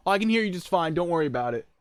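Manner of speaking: high and loud over the TV. Retold or imitated. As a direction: call back over the noise.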